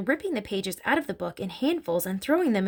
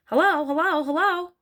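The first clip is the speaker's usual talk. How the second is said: high, loud parrot call; 8 semitones higher, 5 dB louder than usual. A narrator's reading. Hidden parrot interrupts the listening family, parrot voice. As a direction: squawk the words out high.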